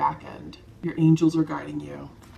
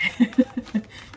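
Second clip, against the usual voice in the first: teary laugh; 7 semitones higher than usual. Real, not acted. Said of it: "It's just really beautiful".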